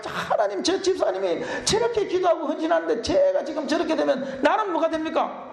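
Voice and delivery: high-pitched retold complaint to God; anguished plea. Pastor retelling a prayer for a church member, anguished plea. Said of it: "나도 괴로운 거예요".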